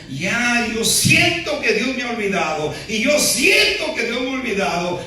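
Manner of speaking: a hint of a hysterical church sister; mock hysterical sister. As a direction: play the desperate woman, lightly. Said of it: "Histérica, diciendo".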